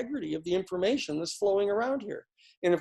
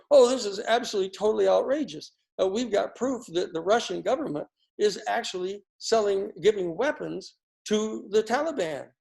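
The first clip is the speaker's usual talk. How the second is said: mocking offended outrage; 3 semitones higher than usual. Mocking Democratic Party strutting around offended, sarcastic outrage. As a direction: ham up fake shock, pouring scorn on it. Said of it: "completely offended".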